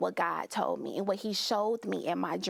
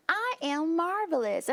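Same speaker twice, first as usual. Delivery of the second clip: high, emphatic self-affirmation; proud declaration; 8 semitones higher than usual. Retold or imitated. Guest reenacting her mirror affirmation, proudly declaring.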